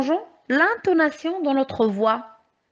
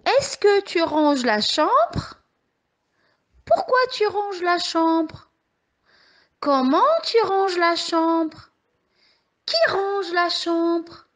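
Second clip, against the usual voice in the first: each question read slowly and higher, «Est-ce que», «Pourquoi», «Comment», «Qui» leaned on; slow, higher teacher reading that lands on each question word; example questions read aloud; 5 semitones higher, slower than usual. Shown as a demonstration. Teacher reading example questions slowly and higher to the children. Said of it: "Je vous lis les phrases".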